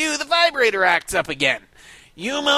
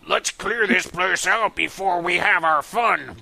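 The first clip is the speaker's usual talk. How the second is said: slow villain voice. Acted. Intruder to partner.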